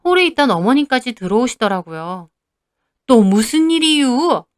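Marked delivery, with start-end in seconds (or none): 3.1-4.4 slow, higher, drawn-out question; irritated mother-in-law. A narrator's reading. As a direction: ask what the trouble is this time, annoyed. Mother-in-law walks in on quarrel. (짜증 섞인 시어머니 말투)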